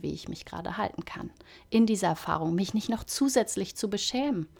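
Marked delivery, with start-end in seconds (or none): 0.0-1.3 breathy hushed whisper, much softer. Real, not acted. Coach gently admitting her limits, whispered. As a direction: let it fall to a whisper.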